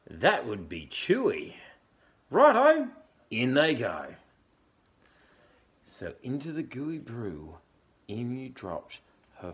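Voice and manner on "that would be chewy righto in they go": very high, loud cheeky dingo. Acted. Dingo voiced in story.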